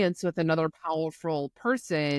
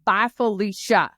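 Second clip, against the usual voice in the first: defiant retort; 2 semitones higher, 5 dB louder than usual. Retold or imitated. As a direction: act out a sassy brush-off, punched up. Retold son snapping back at his mom.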